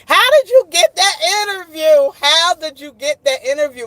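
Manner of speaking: high, loud amazed exclamation; excited disbelief. Retold or imitated. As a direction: gush in shocked admiration. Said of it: "And I would be like".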